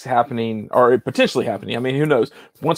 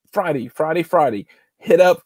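lightly voiced monster truck announcer; 3 semitones higher than usual. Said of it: "can't sound like the monster truck guy".

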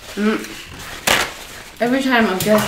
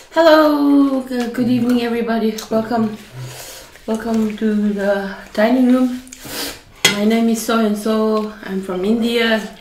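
bright, formal welcome to the diners; proper hostess greeting; 2 semitones higher than usual. Shown as a demonstration. Hostess welcoming dinner guests, formal and bright. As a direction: greet the table like a polished hostess. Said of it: "Supposed to say it like that".

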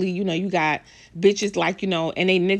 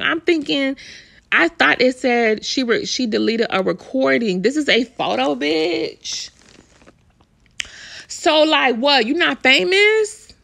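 loud and higher, incredulous; outraged disbelief; 5 semitones higher, 5 dB louder, slower than usual. Real, not acted. Vlogger mocking the celebrity for hiding from fans, loud outrage. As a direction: throw the question at her in loud disbelief. Outraged at deleting fan photo.

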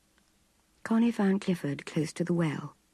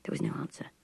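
plain reading voice

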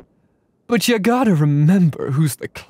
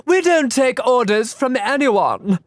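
slow, raised sneering delivery; slow villain voice; 5 semitones higher, much slower than usual. Acted. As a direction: sneer it out slowly. Voicing game character lines.

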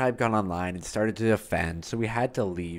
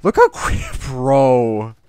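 excited shriek; 3 semitones higher, 9 dB louder, slower than usual. Real, not acted. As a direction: squeal with delight at the kill. Thrilled at quick kill.

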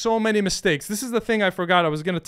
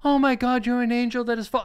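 higher, hammed-up fawning; mock gushing; 7 semitones higher than usual. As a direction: overdo the flattery on purpose. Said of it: "We're not like".

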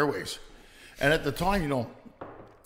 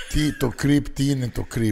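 puzzled Greek guy; 5 dB louder than usual. Retold or imitated. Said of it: "you sound like a creep".

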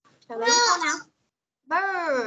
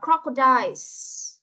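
"crocodiles" said slowly, final s marked; slow down and land the s in "crocodiles"; plural s stressed; much slower than usual. Shown as a demonstration. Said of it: "nhiều hơn một con là số nhiều rồi".

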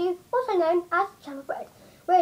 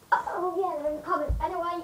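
leaning in to whisper; 6 dB quieter than usual. Real, not acted. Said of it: "sorry about the whisper".

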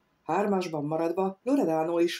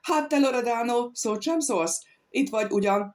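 calling out; 5 semitones higher than usual. Acted. An adventurer calls out to silent Loredano across the feast. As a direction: shout over the din to a silent friend. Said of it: "belekiáltott valaki".

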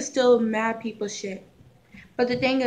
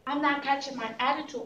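higher and faster, defensive snap back; defensive comeback; 5 semitones higher, faster than usual. Acted. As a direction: throw the challenge right back. Newcomer fires back.

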